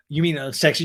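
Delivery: ordinary talk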